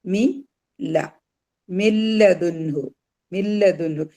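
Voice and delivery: മി ല in pieces, then joined as മില്ലതുൻഹു; മില്ലതുൻഹു with doubled l and no first n; silent noon merging. Shown as a demonstration. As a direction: recite മില്ലതുൻഹു, n swallowed into the l. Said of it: "ഈ നൂനിന് എന്ത് ചെയ്യല?".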